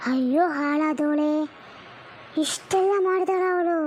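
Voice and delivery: slow, drawn-out cursing wail; shocked lament. Acted. Mother cursing the mother-in-law on hearing the news, slow and aghast. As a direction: curse her slowly in disbelief.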